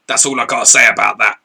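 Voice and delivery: half-mock wrestler catchphrase, leaning on say; Stone Cold. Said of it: "I felt like Stone Cold then".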